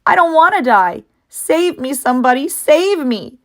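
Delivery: high, loud terrified begging; panicked plea. Acted. Wilbur begs the barn to save him, high and panicked. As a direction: beg anyone to save you. Pig pleads for rescue in panic.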